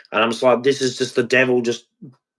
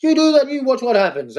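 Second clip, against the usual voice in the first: much higher, goading threat; menacing inner voice; 12 semitones higher than usual. Acted. Inner voice holding a gun to his sad side, menacing. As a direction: dare them in a high, menacing voice. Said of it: "it's got a gun to the, the sad side".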